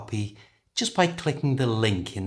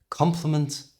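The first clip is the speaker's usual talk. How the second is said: "Compliment" weighted on the first syllable, higher and firmer; slight stress contrast; 5 semitones higher than usual. Shown as a demonstration. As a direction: hit COM in "Compliment", let the end reduce. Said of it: "a slight difference in stress".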